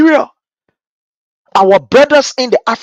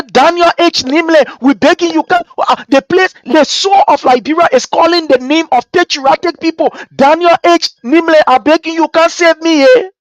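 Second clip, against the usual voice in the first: Liberia crying out; 6 semitones higher than usual. Pretend. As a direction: call a patriot by name and beg. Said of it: "Liberia is crying, say".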